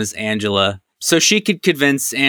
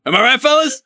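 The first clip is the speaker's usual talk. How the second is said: mock bro; 12 semitones higher, faster than usual.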